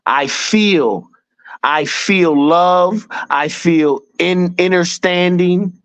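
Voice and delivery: slow, drawn-out chant of each phrase; meditation mantra. Shown as a demonstration. Man showing friends how he meditates, slow and drawn out. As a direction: intone it like a morning meditation. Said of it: "when I meditate".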